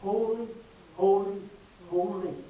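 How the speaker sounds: crying out holy. Shown as a demonstration. Preacher contrasting the angels' cry, loud and high. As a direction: ring it out like the angels. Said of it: "They cried out".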